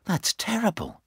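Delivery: high-pitched dismay; shocked. A narrator's reading. Gulliver hears of looming war, shocked. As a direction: react aghast in a high voice. Gulliver reacts to grave news.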